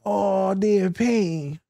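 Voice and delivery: put-on high, slow baby-talk coddling; mock tender soothing. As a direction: coo over a crying child. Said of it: "we be like".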